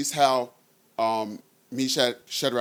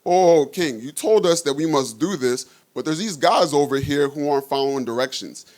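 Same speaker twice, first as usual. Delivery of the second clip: snitching astrologers; 2 semitones higher than usual. Retold or imitated. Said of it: "The astrologers said".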